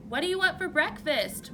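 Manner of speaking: shouting a question across a noisy room. A narrator's reading. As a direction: call out loud and high over the TV noise. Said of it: "Mom shouted".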